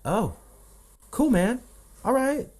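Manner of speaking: high, easy-going bro voice, lightly done; casual dudes. Retold or imitated. Imitating rich guys accepting him, breezy and high. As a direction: toss it off like a laid-back guy. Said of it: "They're like".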